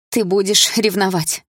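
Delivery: exclaiming. Acted. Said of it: "воскликнула мама".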